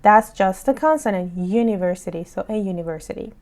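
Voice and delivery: slow, deliberate teacher read; slow explaining. Shown as a demonstration. Teacher explaining the consonant sound, slow. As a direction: spell it out slowly for learners. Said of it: "چون شما که صدا نمیشنوین".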